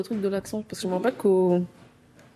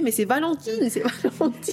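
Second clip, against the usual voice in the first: higher-pitched retold protest; protestation imitée; 5 semitones higher, slower than usual. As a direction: plead that someone else did it, pitch lifted. Retells her protest to the teacher. (protestation d'innocence, voix plus aiguë)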